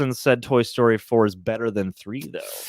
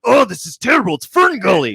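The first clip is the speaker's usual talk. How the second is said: scornful; 6 semitones higher, 5 dB louder than usual. Retold or imitated. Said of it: "the other half were like".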